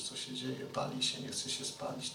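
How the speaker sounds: whispered, as if peering at the fire; hushed whisper. A narrator's reading. Preacher whispers about Moses watching the burning bush. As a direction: breathe it out in awe.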